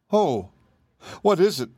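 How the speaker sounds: mild worried gasp of a question; alarmed cry. Acted. Dorothy asks the Emperor about bad news, mildly alarmed. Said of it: "cried Dorothy".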